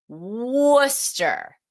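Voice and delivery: Worcester said as "Wuh-ster", no r in the middle; Worcester clipped to two syllables, "WUS-tuh"; Worcester the Massachusetts way, "Wuster"; local pronunciation. Shown as a demonstration. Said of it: "It is pronounced Worcester".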